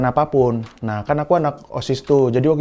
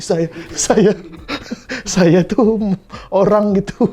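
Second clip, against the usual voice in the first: higher-pitched, breaking into laughter; cracking up; 7 semitones higher, slower than usual. Real, not acted. Comic telling of their shy schooldays, cracking up. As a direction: struggle to get the words out through giggles.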